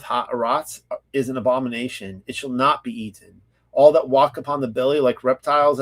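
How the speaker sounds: measured, formal reading aloud; solemn recital of ancient law; scripture reading. Real, not acted. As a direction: read out the law, phrase by phrase.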